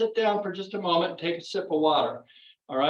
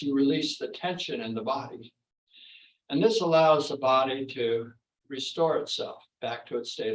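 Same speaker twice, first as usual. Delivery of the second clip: guided relaxation; 2 semitones lower than usual. Real, not acted. Instructor helping the class catch their breath, calm guided relaxation. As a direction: ease the class into rest. Leads seated relaxation between exercises.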